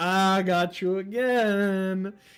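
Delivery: very slow, put-on manic delivery. Describing a character's voices, imitating a manic voice. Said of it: "or she could do the manic".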